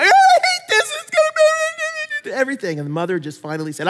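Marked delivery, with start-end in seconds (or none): 0.0-2.8 put-on high, whining child; squeaky whining kid; whiny kid voice. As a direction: mimic a complaining little boy. Boy complaining on plane.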